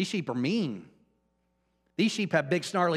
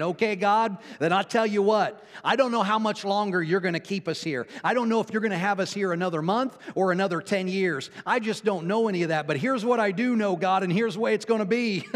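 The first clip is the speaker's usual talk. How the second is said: higher, insistent address to God; retold resolute vow; 5 semitones higher, 3 dB louder than usual. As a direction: lay it out for God, urgently.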